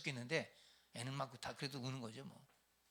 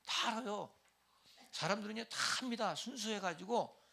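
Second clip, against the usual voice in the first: higher, louder insistence; emphatic preaching; 8 semitones higher, 4 dB louder than usual. Real, not acted. Preacher insisting to congregation, raised voice. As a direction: drive it home to them.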